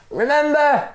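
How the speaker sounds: high, urgent call; insistent reminder. Acted. Stranger calling up from the rope, high urgent call. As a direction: press the word home. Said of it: "the other man said".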